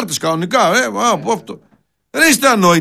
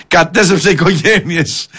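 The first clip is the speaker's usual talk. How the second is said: «Κατέστρεψε οικογένειες» said slowly, each word drawn out; slow mocking repeat; slower than usual. Repeating the TikTok claim to ridicule it, slow and sarcastic.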